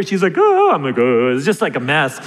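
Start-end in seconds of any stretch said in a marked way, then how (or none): 0.4-0.7 high, loud mock wail; short high-pitched pretend sob; imitated crying. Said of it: "start kinda crying with her". 1.0-1.3 low mock moan; low-pitched fake crying, played for comedy; imitated crying. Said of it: "start kinda crying with her".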